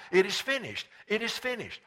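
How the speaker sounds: ringing declaration, voicing Jesus; crying out. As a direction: cry it twice in a preacher's lifted voice. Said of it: "Jesus cried".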